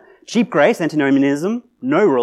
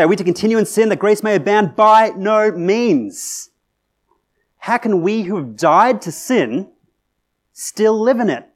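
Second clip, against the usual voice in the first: preaching at full force; 5 semitones higher, 5 dB louder than usual. Acted. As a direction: proclaim it like Paul slamming the door.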